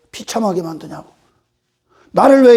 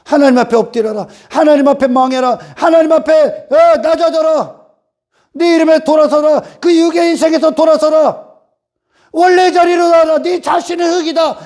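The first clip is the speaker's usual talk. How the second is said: Jeremiah proclaiming; 3 semitones higher than usual. Retold or imitated. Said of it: "에레미야 선지자가".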